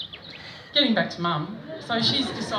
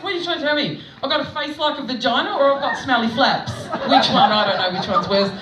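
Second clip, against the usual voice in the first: raised, indignant comic challenge; mock affront; 3 semitones higher, 5 dB louder, faster than usual. Comic confronting him about the insult, mock indignant. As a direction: challenge him indignantly, getting louder towards the end.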